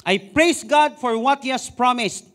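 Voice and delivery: slow proclamation. Acted. Preacher proclaims verse loudly.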